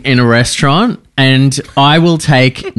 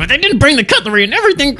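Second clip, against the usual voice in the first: high, fast grumbling complaint; whining diner; 10 semitones higher, much faster than usual. Retold or imitated. An Australian diner grumbling to friends at the table, high and fast. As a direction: grumble it high and quick under your breath.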